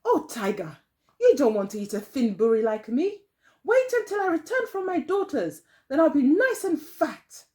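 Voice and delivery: high, coaxing granny voice; pleading old woman. Acted. Old woman coaxing the hungry fox in a high voice. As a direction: talk the fox out of it sweetly.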